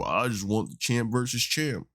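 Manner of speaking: lightly mocking impersonation; Dana White. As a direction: play the greedy boss, badly imitated. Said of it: "I'm Dana White".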